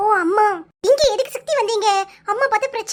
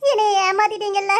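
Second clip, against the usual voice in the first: crying. Acted. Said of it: "அழுகையை first நிறுத்து".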